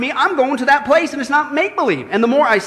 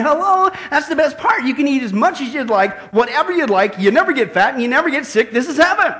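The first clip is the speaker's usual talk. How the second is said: emphatic, mock-exasperated reassurance; 4 semitones higher than usual. Saint Peter telling the old man it's heaven, exasperated. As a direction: spell it out with lively exasperation.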